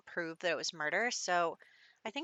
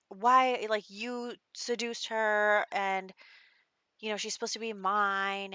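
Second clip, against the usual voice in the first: mildly hammed-up outrage, raised pitch; retold freak-out; 3 semitones higher, 4 dB louder than usual. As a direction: act out a jealous man's protest. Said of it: "freaking out".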